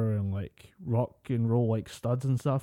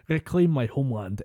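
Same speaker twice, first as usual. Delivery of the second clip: mock Scottish accent; 4 dB louder than usual. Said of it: "isn't bad".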